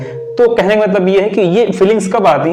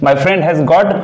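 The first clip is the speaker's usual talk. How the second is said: slow demo; 2 semitones lower, much slower than usual. Shown as a demonstration. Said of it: "express करते हैं".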